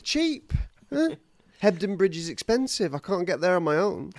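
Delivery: high, giggly village gossip; gossiping villager. Pretend. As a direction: gush like a nosy neighbour, laughing.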